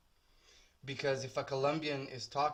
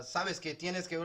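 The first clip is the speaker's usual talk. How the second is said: Spanish with a put-on native accent; 4 semitones higher than usual. Shown as a demonstration. Tattooist showing how he starts chats with clients, Spanish accent. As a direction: show off a practised Spanish accent. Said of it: "I do the accent pretty well".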